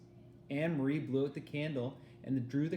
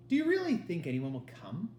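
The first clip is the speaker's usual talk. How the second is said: nervous; 5 semitones higher, 5 dB louder than usual. A narrator's reading. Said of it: "Ellen asked nervously".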